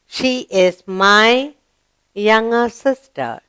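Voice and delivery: put-on slow, deliberate read-aloud for children; slow model reading. Shown as a demonstration. Teacher modelling a sentence slowly for the class. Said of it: "Yes? Good".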